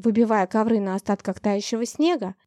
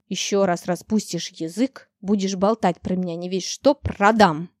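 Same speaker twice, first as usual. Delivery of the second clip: vicious threat; 3 semitones lower than usual. Acted. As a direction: threaten the dragon coldly. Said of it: "злобно пригрозил Виконт".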